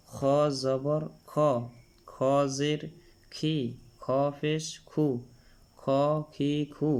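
"খ, খি, খু" said thick from the throat; full-mouthed Arabic kha on "খ, খি, খু"; thick, heavy kha. Shown as a demonstration. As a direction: make each "খ, খি, খু" heavy. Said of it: "খ মোটা হবে".

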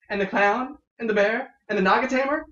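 eagerly listing, pitch climbing; excited. Acted. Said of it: "continues Miriam excitedly".

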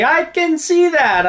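high, loud, drawn-out retold reply; emphatic retort. Shelter lady after nearly being bitten, emphatic retort. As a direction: act out a pointed, stretched-out comeback.

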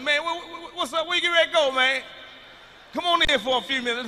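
high, loud, stammering overeager hello; desperate eager greeting. Retold or imitated. Comic to buddy, not wanting to go home, high loud eager plea.

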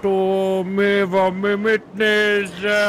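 rising, slowed, rattled questions; dragged-out confused panic; paranoid freakout. Acted. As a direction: panic like the weed hit hard. Stoned friend freaking out.

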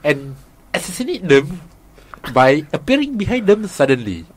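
put-on Indian accent in halting phrases; amateur Indian accent; attempted Indian accent. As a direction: explain in a mock Indian accent, pausing between phrases. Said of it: "in an Indian accent".

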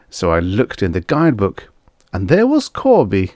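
trucker spinning his yarn. Acted. Trucker explains why he stayed at the hotel, storytelling. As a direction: recount the mishap with lively lifts in pitch.

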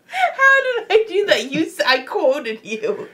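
loud, high-pitched indignant protest. Real, not acted. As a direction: protest loudly against the accusation. Playful argument, defending herself.

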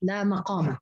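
لا مقامة as laa maqaama; fatha on the mim. Shown as a demonstration. Teacher repeating the others' reading, mim with a. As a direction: say لا مقامة with open ma. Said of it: "بفتح الميم".

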